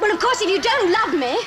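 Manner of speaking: loud shouting. Demanding to know if the other one loves you: shouting. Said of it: "Stop shouting".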